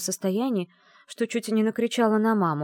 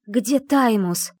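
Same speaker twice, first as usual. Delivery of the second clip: tense demand; 5 semitones higher, 6 dB louder, much slower than usual. A narrator's reading. Demands answer from the dragon.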